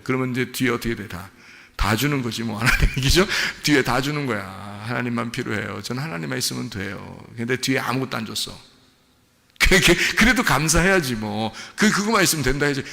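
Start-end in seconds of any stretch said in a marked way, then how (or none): 4.9-7.2 quiet pious answer. Shown as a demonstration. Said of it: "여러분 속에 물어보는 얘기예요".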